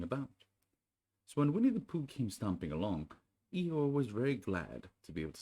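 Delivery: measured storybook reading voice; gentle storybook narration; story narration. A narrator's reading. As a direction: read it like a bedtime story to children. Reads Winnie the Pooh aloud.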